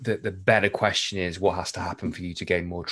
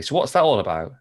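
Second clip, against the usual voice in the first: Northern accent; 6 semitones higher, faster than usual. Shown as a demonstration. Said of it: "in a proper Northern accent".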